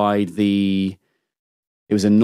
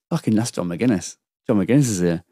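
stunned realisation. Retold or imitated. Realising, said to himself.

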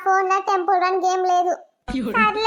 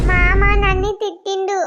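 mock crying child; 4 dB louder than usual. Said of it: "ఎందుకు ఏడుస్తున్నావు?".

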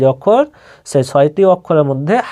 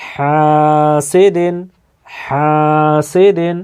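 হাসিদিন drawn out syllable by syllable; slow recitation; much slower than usual. Shown as a demonstration. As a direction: read হাসিদিন slowly for students. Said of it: "এক আলিফ পরিমাণ টানতে হবে".

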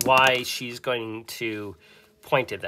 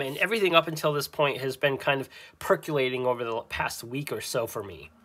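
ordinary delivery

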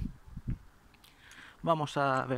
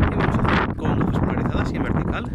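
shouting over wind; 8 dB louder than usual. Real, not acted. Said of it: "Perdón por el ruido del viento".

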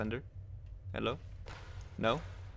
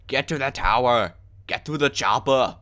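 Arnold impression; 2 semitones higher, 5 dB louder than usual. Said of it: "as Arnold would say".

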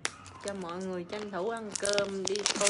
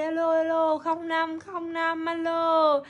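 calling out; 6 semitones higher, 6 dB louder than usual. Real, not acted. Livestream seller calling out.

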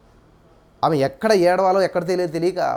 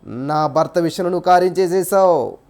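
model prayer. Shown as a demonstration. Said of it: "ఏమని అడగాలి".

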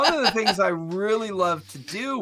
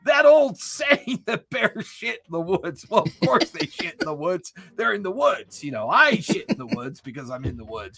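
hammed-up backwoods rambler; 6 semitones higher than usual. Game player voices Elof rambling about the woods, hammed-up backwoods character.

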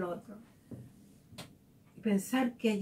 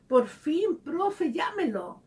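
put-on delighted boy; 5 semitones higher, slower than usual. Teen student happily begging the teacher to call his dad. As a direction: blurt it out like a kid who got his wish. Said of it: "se le sonrió su cara y me dijo".

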